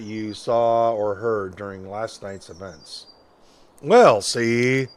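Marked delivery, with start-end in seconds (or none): 3.8-4.9 Pat Dixon voice. Acted. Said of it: "I think I just tried to channel Pat Dixon".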